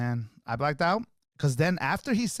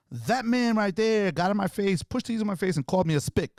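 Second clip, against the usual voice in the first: retold indignant accusation; 6 semitones higher than usual.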